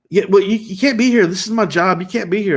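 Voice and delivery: acting out a mild telling-off; protesting. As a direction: imitate an insistent objection. Wife objects in retold quarrel.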